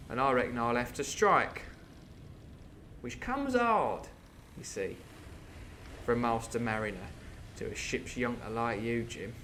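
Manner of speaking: half-hearted Cockney pirate bargaining; attempted Cockney. Wounded coxswain striking terms with Jim, mild Cockney. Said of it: "can't do a very good Cockney voice".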